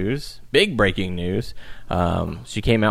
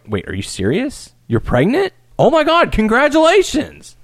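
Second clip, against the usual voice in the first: genuine excited congratulations; 14 semitones higher than usual. Retold or imitated. Asuka congratulating pregnant Becky, high excited shriek. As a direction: burst out, delighted by the news. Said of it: "Asuka broke character".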